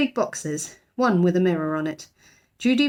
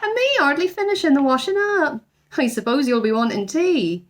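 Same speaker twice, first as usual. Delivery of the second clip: fussy housekeeper; 7 semitones higher than usual. A narrator's reading. Housekeeper Mrs Bird grumbling.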